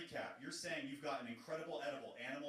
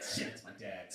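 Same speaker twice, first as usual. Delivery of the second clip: panicked yelp. Acted. Punchline of knock knock joke.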